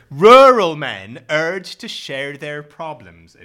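reading the headline in a mock West Country accent. Shown as a demonstration. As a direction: drawl the headline like a hammed-up farmer. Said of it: "I shouldn't read it in this voice".

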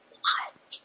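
voiceless, breath-only "what"; stunned. Retold or imitated. Singer retelling Nile's offer to visit, stunned.

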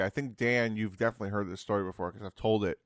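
talking while eating; words round a bite of food; mouth full. Real, not acted. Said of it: "are you eating right now".

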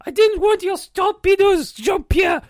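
put-on mildly heated French-accented protest; indignant rebuttal. Interviewee rejects his partner's drinking idea, indignant.

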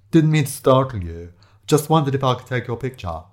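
lightly voiced casual stranger; a hint of put-on politeness; apologetic photographer. Photographer asking strangers for a picture, mildly apologetic.

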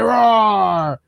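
mock monster roar; Braun Strowman. Fan acting out the wrestler bullying his rival, mock roar. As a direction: imitate a bullying wrestler's roar, not full force. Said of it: "And Braun is just like".

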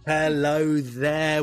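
echoing the guest's Welsh "hello there"; slow Welsh-tinged greeting; Welsh accent. Retold or imitated. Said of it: "Listen to that Welsh accent".

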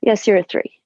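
lightly voiced stern midwife. Midwife reporting an examination result, mildly stern. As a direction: give a hint of a stern midwife. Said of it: "quite a stern midwife".

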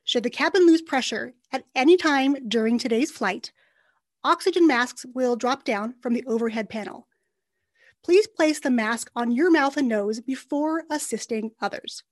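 calm, formal cabin announcement voice; flight attendant announcement. Acted. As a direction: read it like a pilot's PA. Mock flight safety announcement.

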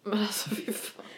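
hushed fy fan; breathless whispered swear; whispered curse. Real, not acted. Cat on the knitting.

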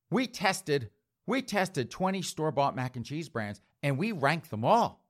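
mock voice of the food writer. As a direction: parody a chirpy food writer. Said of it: "She's gonna be like".

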